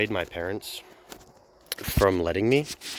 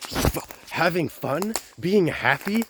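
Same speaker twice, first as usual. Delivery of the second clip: much higher mock voice, scornful; mocking the principal; 8 semitones higher than usual. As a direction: squeak it out as a sneering caricature of the principal.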